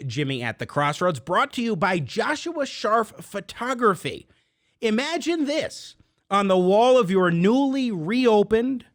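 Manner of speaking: lively, emphatic radio sponsor pitch; sponsor ad read. Acted. Host pitching a photography sponsor to listeners, upbeat ad read. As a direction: sell it to listeners with punched key words.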